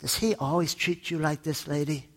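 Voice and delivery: soft, quiet concern; a touch of a sympathetic cop; concerned policeman. Acted. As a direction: lean in and ask her quietly. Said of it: "The policeman says".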